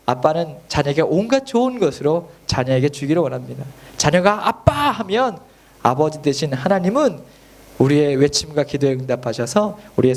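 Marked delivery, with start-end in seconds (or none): 4.5-4.7 high-pitched call to Daddy; acted cry, pitched well up. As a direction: call out like a child to a father. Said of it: "하고 부르짖는 거예요".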